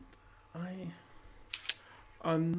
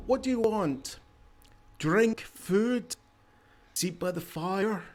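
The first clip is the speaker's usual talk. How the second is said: high, welcoming innkeeper voice, pitched way up; tavern keeper; 5 semitones higher than usual. Acted. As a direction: greet weary travelers like a chatty host.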